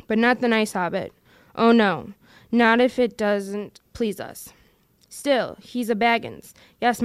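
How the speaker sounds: a lightly voiced Gollum, scheming and wheedling. Gollum arguing with himself over the ring, in a scheming wheedle. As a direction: Gollum muttering to his precious, coaxing himself.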